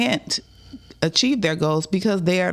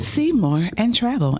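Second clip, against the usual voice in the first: voiceover announcer; 3 semitones higher than usual. Acted. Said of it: "I do do voiceovers".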